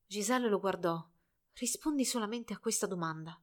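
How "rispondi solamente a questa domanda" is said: soft, hushed plea; whispered. A narrator's reading. Dying girl asking Albert one question, softly hushed. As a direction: barely breathe the request. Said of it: "sussurrò".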